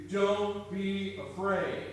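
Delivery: slow, firm encouragement; slow reassuring. Acted. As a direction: lean in gently and slowly. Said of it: "encouraged to".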